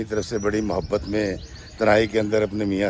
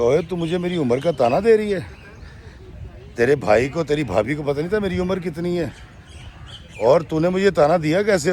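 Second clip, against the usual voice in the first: angry retort; 5 semitones higher than usual. Retold or imitated. Husband angrily rebukes his wife over the age remark. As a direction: snap back at her for the age remark.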